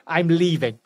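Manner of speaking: high, indignant pet voice; voicing the dog. Owner voicing dog Winston fed up with buybacks, mock indignant. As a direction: play the fed-up dog storming off. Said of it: "He's like".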